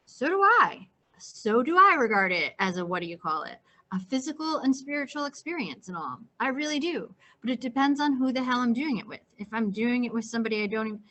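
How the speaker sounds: eager, raising the voice at the bar; getting carried away and too loud; excited, too loud. Acted. Holden blurting his views to Luce, excited and loud. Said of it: "I was getting excited and I was talking a little too loud".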